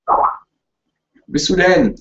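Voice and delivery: long sung-out call, slow; drawn-out singsong call. Real, not acted. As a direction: stretch every word like calling a lost pet. Calling for missing friend online. (langgezogen singend gerufen)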